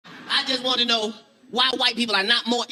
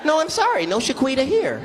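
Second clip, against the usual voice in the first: polite white person; 3 semitones higher than usual. Acted. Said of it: "They just".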